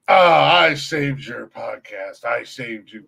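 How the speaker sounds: slow, self-important mock brag; arrogant boasting. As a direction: draw it out like a smug savior. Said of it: "full head of arrogant steam".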